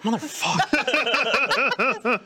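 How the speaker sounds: retold stunned reaction with a laugh in it; mock astonished curse. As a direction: stretch the curse out in amused disbelief. Retelling own reaction to a discovery.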